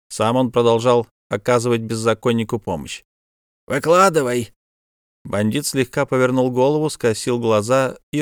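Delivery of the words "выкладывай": demanding. Acted. Official demands the bandit talk.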